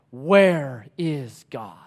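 drawn-out cry, stretched word by word; a restrained yell, very slow; retold yell. Prisoner behind Elie cries out, retold yell. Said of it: "again yell out".

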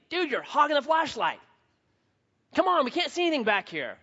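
a hint of grumbling pals in the dark; complaining buddies. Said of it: "the guys behind him complaining".

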